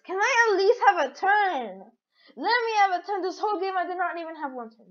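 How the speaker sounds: high-pitched protest, speeding up at the end; pleading complaint. Real, not acted. Player who never got a turn, pleading complaint. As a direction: plead high, then rattle off the grievance.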